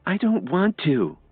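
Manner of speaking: high, slow refusal; Lily's voice, reluctant; lightly voiced reluctant girl. A narrator's reading. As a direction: pull back in a high girl's voice. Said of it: "took a step back".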